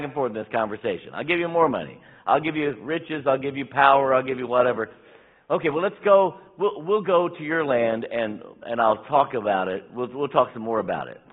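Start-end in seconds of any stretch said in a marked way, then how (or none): 1.1-4.9 loud, pushy king piling up offers; king offering bribes. Retold or imitated. King bribes Balaam, retold story. 5.5-11.2 loud, eager and higher as Balaam; Balaam giving in. Retold or imitated. Balaam gives in to king.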